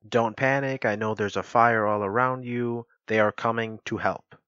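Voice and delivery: loud, mild mock yell; mock scream. Bystander reassuring a person trapped in a fire, mock scream. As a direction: pretend to shout through to someone inside. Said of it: "scream, you know".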